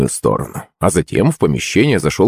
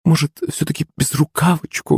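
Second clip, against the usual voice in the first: higher, softer pleading nanny voice; coaxing nanny; 8 semitones higher, 4 dB quieter than usual. A narrator's reading. Nanny pleading with the boy to take the vest, coaxing. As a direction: coax him gently like a fussy nanny.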